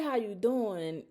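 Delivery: drawn-out caring how you doing; a slow, sincere how you doing; slow, meaningful ask. Retold or imitated. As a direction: lean on it slowly like he really means it. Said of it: "he was actually in the middle of".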